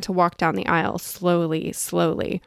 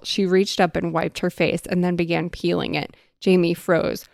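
usual speaking voice

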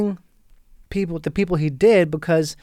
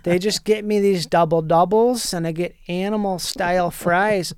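Wisconsin welder voice. Acted. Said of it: "he's like".

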